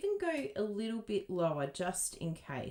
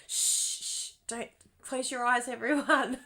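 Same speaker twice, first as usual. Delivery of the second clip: giggly shushing, getting louder; laughing shush; 7 semitones higher, 5 dB louder than usual. Pretend. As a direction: hush them while laughing.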